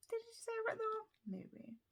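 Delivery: hushed, teasing whisper; sly whisper, dropping almost to nothing; conspiratorial whisper. Real, not acted. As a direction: lean in and whisper the hint. Teasing aside about the witch.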